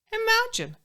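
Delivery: amazed storyteller's aside; marvelling. Acted. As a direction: exclaim it with a high leap of amazement. Marvelling aside at the talking stork.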